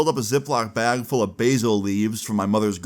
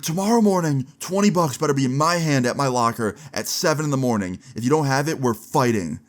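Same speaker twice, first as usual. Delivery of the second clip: higher-pitched, insistent ultimatum; retold angry threat; 4 semitones higher than usual. Cheated classmate threatening a fight over twenty bucks, retold anger. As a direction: act out a mad classmate laying down terms.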